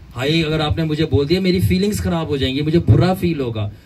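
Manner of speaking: a light hammed-up touchy listener; mock fragile feelings. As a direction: sigh it like feelings are made of glass. Mocks sensitive person.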